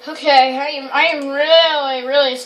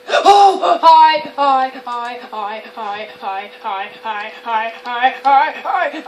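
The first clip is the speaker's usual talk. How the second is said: nervous greeting; 4 semitones lower, slower than usual. Real, not acted.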